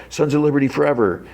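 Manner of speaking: high mock battle cry; retold yell. Vigilante after shooting a cop, high mock yell. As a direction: imitate a rallying yell at moderate volume. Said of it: "He yells".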